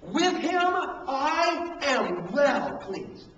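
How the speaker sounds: very slow, solemn reading; voice from heaven. Retold or imitated. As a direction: speak each word slowly like a voice from heaven. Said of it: "a voice from heaven came, saying".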